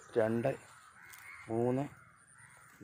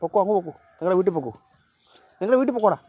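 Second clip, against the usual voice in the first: slow, stretched, higher coaxing to send them home; drawn-out shooing; 6 semitones higher, 4 dB louder, slower than usual. Real, not acted. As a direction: drag out പൊക്കോടാ like shooing a pet. (നീട്ടിവലിച്ച് പൂച്ചകളെ വീട്ടിലേക്ക് ഓടിക്കുന്നു)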